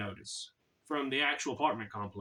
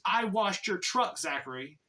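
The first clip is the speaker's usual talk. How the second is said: frustrated; 3 semitones higher than usual. Retold or imitated. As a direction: imitate an exasperated roommate. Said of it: "he gets frustrated with me".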